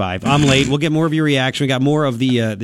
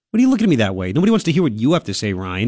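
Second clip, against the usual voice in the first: mock teasing; 4 semitones lower, faster than usual. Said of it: "You don't like my accent?".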